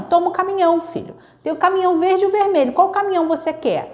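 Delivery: put-on high, sing-song parent talking to a toddler; lightly voiced doting parent; cheerful parent. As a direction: lift it brightly, like a parent to a little child. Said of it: "Mas a gente diz sim".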